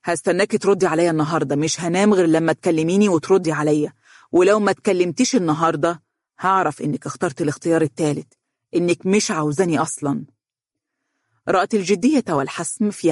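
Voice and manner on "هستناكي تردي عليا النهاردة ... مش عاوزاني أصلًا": fast, firm ultimatum; quick and serious. Acted. Fiancé pressing Donia for an answer today, fast and firm. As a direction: rush it out, no room to argue. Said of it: "قال بسرعة وبجدية".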